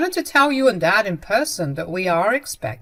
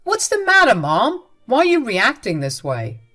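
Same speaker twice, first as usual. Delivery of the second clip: much higher, louder pleading; alarmed shout; 5 semitones higher, 7 dB louder than usual. Acted. Son demanding his mother explain, much louder. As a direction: push the question out higher and louder.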